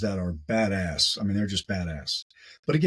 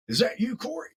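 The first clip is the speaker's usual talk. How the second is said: imitating Neil, much higher and surprised. Neil recognizing Corey on the dark trail, high surprised imitation. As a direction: play the buddy spotting Corey in the dark. Retold trail encounter, Neil's voice.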